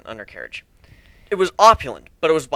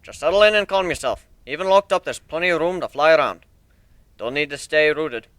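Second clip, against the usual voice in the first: a touch higher, louder, boastful builder; lightly voiced proud shipbuilder; 3 semitones higher, 5 dB louder than usual. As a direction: show off your ship like a proud craftsman. Steelhorn calms Rainbow Dash.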